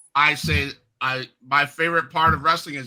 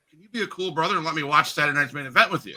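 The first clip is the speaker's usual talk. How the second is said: put-on eager kid brother; much faster than usual. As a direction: blurt the whole plea in one breath. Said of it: "he goes".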